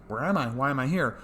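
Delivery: mock panic rising to a high, loud gasp; scared, confused. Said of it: "he's all scared about the sky".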